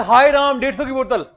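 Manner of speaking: high, loud mock gasp over the price; mock shocked customer; mock shocked complaint. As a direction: ham up the outrage at the bill. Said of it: "कहते".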